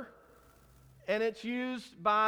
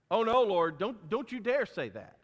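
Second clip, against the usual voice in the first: mock rebuke, bursting in loud then easing; rebuking; 4 dB louder than usual. Peter rebuking Jesus over his death, rebuking. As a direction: object sharply, as if scolding in a retelling. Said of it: "that's where he rebukes him".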